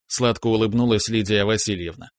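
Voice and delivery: plain reading voice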